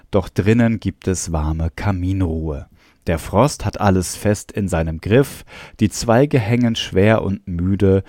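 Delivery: measured, lilting verse recital; lightly recited poem; poem reading. Acted. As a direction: read it line by line like a simple rhyme. Reads the chatbot's poem aloud.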